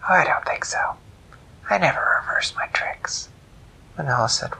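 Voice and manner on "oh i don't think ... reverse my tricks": higher whispered trickster; smug jackal. Acted. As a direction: tease her with a refusal. Jackal refuses.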